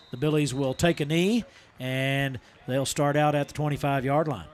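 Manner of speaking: football kickoff call, lifting as the ball goes up; live play-by-play. Real, not acted. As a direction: call the kick live, then settle as play ends.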